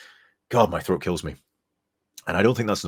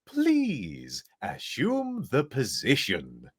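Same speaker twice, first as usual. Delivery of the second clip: robot voice; 5 semitones higher, much slower than usual. Acted. Mister Handy robot line read.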